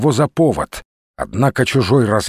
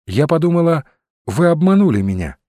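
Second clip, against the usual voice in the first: higher pitch for a woman's line; a hint of a woman's voice, raised in pitch; lightly voiced woman; 5 semitones higher than usual. Narrator voicing Olga's reproach.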